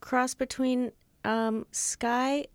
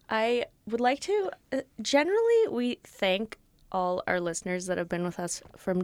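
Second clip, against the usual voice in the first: trying not to laugh. Acted. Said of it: "I'm trying to be serious".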